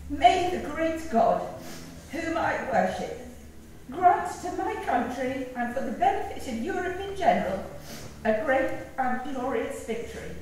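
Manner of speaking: measured, solemn prayer reading; formal prayer reading. Real, not acted. Eulogist reading Timmy's favourite prayer to the congregation, solemn reading. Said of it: "it seems highly appropriate to read it now".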